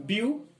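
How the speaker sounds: বিউটিফুল split as বিউ, টি, ফুল with long pauses; syllable by syllable. Shown as a demonstration. Teacher counting syllables for students, বিউটিফুল broken into three parts. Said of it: "এই বিউটিফুল syllable".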